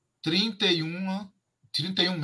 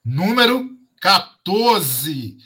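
hyped giveaway announcement; 7 dB louder, much slower than usual. Real, not acted. Draws the giveaway winner.

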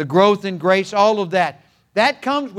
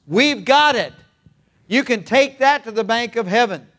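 raised, emphatic pulpit voice; fervent preaching; 2 semitones higher than usual. Acted. Preacher rousing the church, full-throated and emphatic. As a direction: drive the truth home to the congregation.

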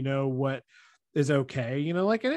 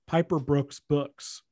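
"Piper Brook's books" said slowly, word by word; careful repeat; much slower than usual. Real, not acted. Co-host getting through a tongue-twisting name, slow and careful.

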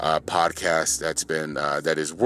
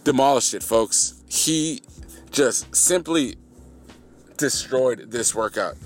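excited hype; 4 semitones higher, slower than usual. Real, not acted. Hyping a friend's workout.

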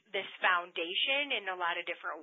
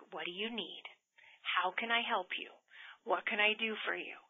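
quiet helper; 5 dB quieter than usual. Retold or imitated. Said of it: "I got quiet".

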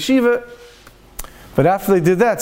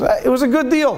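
higher, offhand brush-off; casual shrug; 6 semitones higher than usual. Retold or imitated. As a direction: toss it off lightly, like a shrug. Rich man brushing off question.

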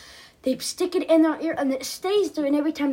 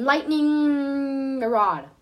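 slow proud reveal; 4 dB louder, much slower than usual. Acted. Jack proudly names superhero name.

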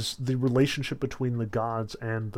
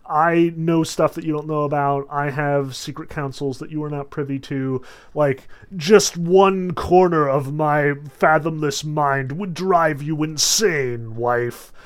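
pompous king; 2 semitones higher, 6 dB louder than usual. Retold or imitated. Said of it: "Zeus plays the King of the Gods card".

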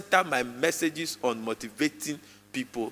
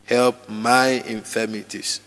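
slower, drawn out, pleading; slow personal prayer; 3 semitones lower, 3 dB louder, slower than usual. Shown as a demonstration. Preacher leading congregation in prayer, slow and personal. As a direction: pray Help my infirmities slowly, as your own. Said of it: "Personalize the prayer".

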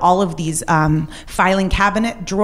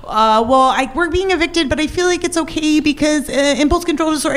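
flustered; 10 semitones higher than usual. Retold or imitated. Flustered call to his dad.

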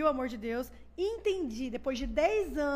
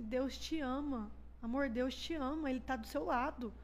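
slow, gentle retold comfort; tender reassurance; slower than usual. Husband comforting his despairing wife, tender reassurance. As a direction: reassure your love slowly and tenderly. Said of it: "começa a chorar, assim, sem parar".

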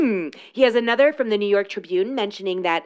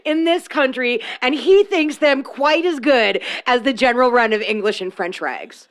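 sarcastic reading; 2 semitones higher, 4 dB louder than usual. Pretend. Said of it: "I'm gonna read this sarcastically".

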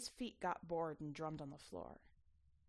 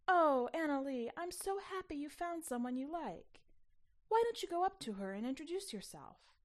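high, gushing encouragement; overjoyed mother; 7 semitones higher, 3 dB louder than usual. Acted. Mother gushing at her daughter to make a friend, overjoyed. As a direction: urge her on with bright, lifted joy.

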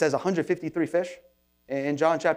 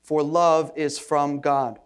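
scripture reading. Acted. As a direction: read it out like a formal Bible reading. Reads scripture aloud.

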